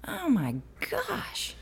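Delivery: breathy whispered gasp of dismay; whispered aside. Real, not acted. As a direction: drop to a shocked whisper. Appalled by school lunches.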